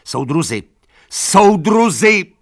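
high, loud, slow call; pleading shout. A narrator's reading. Animals appealing to the cart horses, pleading shout. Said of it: "křičela".

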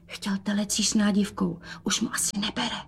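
soft, hushed aside; mother whispering bad news. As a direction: drop the voice to a secret. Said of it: "A pošeptala".

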